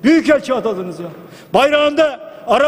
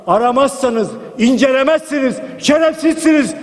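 defiant shout. Retold or imitated. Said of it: "diyen bir siyaset istiyorum".

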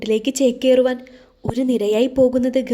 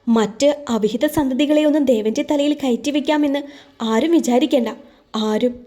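mildly raised, insistent voice; a touch louder, laying down the law; said loudly. Acted. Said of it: "ദേവൻ ഉച്ചത്തിൽ പറഞ്ഞു". (ഉറച്ച, അല്പം ഉയർന്ന ശബ്ദത്തിൽ)

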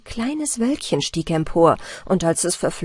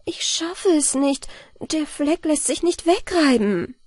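tired; 7 semitones higher than usual. A narrator's reading. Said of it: "ließ sie müde die Arme sinken und sprach".

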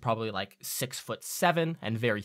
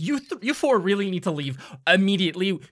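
high, hurried goblin warning; anxious little official shooing them out; hobgoblin voice; 7 semitones higher, 9 dB louder, faster than usual. Acted. Hobgoblin insists the party leave now. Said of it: "And he goes".

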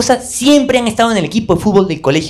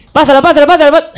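higher, louder pleading shout; calling for the pass; 9 semitones higher, 5 dB louder, faster than usual. Retold or imitated. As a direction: demand the ball from teammates.

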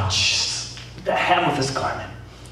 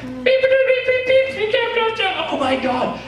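bleeping out swearing. Retold or imitated. Preacher censoring a kid's swearing for the congregation with high beeps. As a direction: cover the curse words with squeaky high censor beeps. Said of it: "cuss words and stuff".

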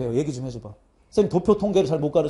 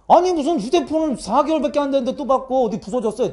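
higher-pitched retold protest; exasperated scolding; 5 semitones higher than usual. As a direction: imitate nagging a parent in disbelief. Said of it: "내가 막 뭐라 해". (어이없어하며 높은 목소리로 따지듯)

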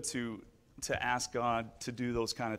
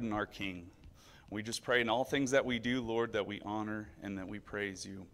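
prayer; 2 semitones lower than usual. Acted. Leads the children in prayer.

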